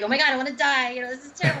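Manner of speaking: mock misery. Husband or wife asked how I feel, mock misery. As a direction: act out a complaint in a lifted voice.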